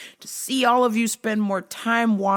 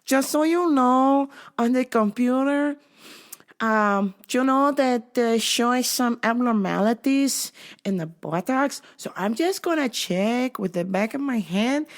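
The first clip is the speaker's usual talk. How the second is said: put-on higher, measured Latina accent; Latina agent accent; 4 semitones higher than usual. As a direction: imitate a Latina officer explaining procedure. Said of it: "young Latina lady with the glasses on".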